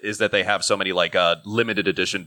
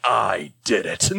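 put-on triumphant kid; much slower than usual. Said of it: "It's like".

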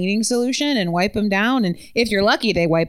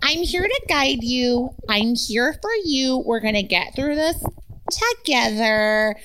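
calm them down, slowly; soothing host; 4 semitones higher than usual. Retold or imitated. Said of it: "and then you'd be like".

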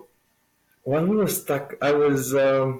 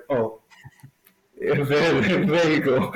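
laughing through the words; 2 semitones higher, slower than usual. Retold or imitated. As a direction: chuckle as you say it. Retold eureka moment, laughing.

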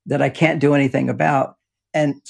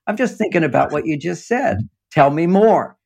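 gently interested, inviting reply; friendly tone; 2 semitones higher than usual. Shown as a demonstration. Man answering a woman who asks his feelings, friendly. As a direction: show her you're listening, in a friendly tone. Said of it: "a friendly tone of voice".

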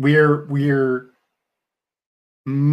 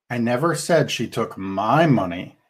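"said" carries the weight, a touch lower overall; stress on said; 3 semitones lower than usual. Shown as a demonstration. Showing how tone shifts meaning, stressing "said". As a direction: press on "said" and let "never" go light. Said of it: "different meaning depending on which word you emphasize".

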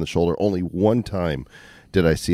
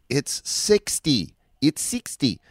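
cop's warning; 9 semitones higher, much slower than usual. Retold or imitated. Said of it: "he goes to me".

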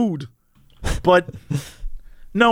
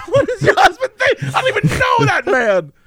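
surprised; 11 semitones higher than usual. Retold or imitated. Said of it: "I was like".

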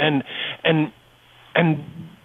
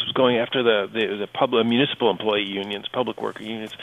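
voice giving out. Real, not acted. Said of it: "Sorry, I'm losing my voice a bit".

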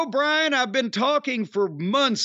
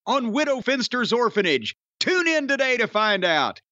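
big, high, hammy announcer voice; booming old melodrama narrator; 5 semitones higher than usual. Acted. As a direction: ham it up like an old serial narrator. Melodramatic show intro with villain jokes.

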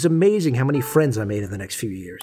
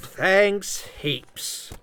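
lightly faked Aussie accent; fake Australian accent; 4 semitones higher than usual. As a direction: put on a cheeky Aussie accent. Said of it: "I know my accent sucks".

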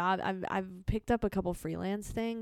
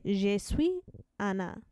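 slow, careful French accent; slower than usual. Shown as a demonstration. Showing off Duolingo French, in a French accent. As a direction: try out beginner French with a French accent. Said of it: "That's me doing a French accent".

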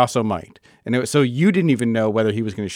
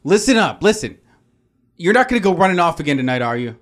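stern big brother; 4 semitones higher than usual. Acted.

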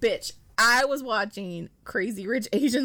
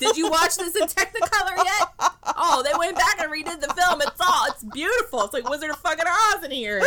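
tag; 7 semitones higher, 5 dB louder than usual. Acted. Parodies history buff amid laughter.

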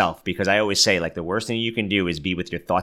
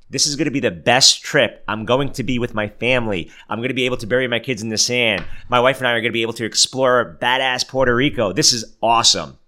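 upbeat positive; 4 semitones higher than usual. Shown as a demonstration. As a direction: sell the trip to yourself with building excitement. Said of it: "No, use positive statements".

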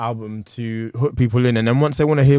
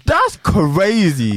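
laughing; 6 semitones higher, much slower than usual. Real, not acted. Laughing at ghostwriter story.

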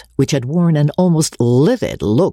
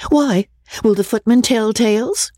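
defiant cry; 7 semitones higher than usual. A narrator's reading. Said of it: "cried Miss Rebecca".

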